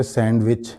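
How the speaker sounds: "सैंडविच" with the d sounded, SAND-vich; "सैंडविच" as sand-wich, clear d; common pronunciation. Shown as a demonstration. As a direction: say "सैंडविच" keeping the d. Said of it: "जिसको हम आमतौर पर".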